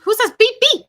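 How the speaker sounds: loud, high-pitched disbelief; incredulous. Real, not acted. Correcting co-host's seagull noise, incredulous outburst. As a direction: challenge it, pitch leaping up.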